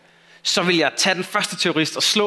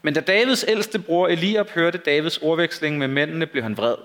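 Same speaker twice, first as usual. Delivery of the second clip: expressive read-aloud with lively dialogue; measured narration, livelier on the quotes; Bible story narration. A narrator's reading.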